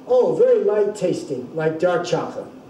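lightly mocking retelling; a touch of dry sarcasm; understated sarcastic quip; mild sarcasm. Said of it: "being sarcastic".

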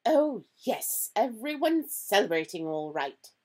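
loud, high-starting impatient retort. A narrator's reading. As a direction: answer impatiently as a stern professor. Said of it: "she said impatiently".

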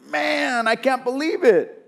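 acting out a man aghast at what he hears; upset disbelief. Preacher voicing Ezra upset over his people, exasperated disbelief. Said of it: "And so he's so mad".

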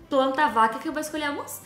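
normal talking voice

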